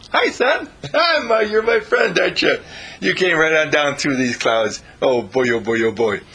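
put-on beam with glee at the child; delighted sun.

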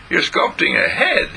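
put-on high girl's disbelieving question; Jean scoffing at her brother; doubting little girl.

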